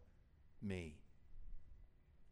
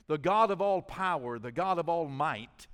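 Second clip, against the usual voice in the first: preaching crescendo; 3 semitones higher, 9 dB louder than usual. Acted. Preaching climax on God's power.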